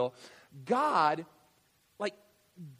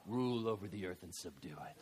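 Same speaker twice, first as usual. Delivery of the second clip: laughing low mutter; 9 semitones lower, 8 dB quieter than usual. Acted. Adam deep inside, chuckling.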